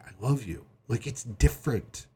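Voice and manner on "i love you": soft, heartfelt declaration of love; mean it tenderly, softly; emotional. Shown as a demonstration. Wife looking her husband in the eyes, emotional. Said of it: "with eyes that are emotional".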